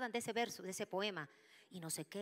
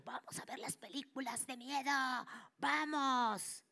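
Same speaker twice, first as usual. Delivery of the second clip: eager urging; 6 semitones higher, 4 dB louder, slower than usual. Retold or imitated. Youths urging horror films.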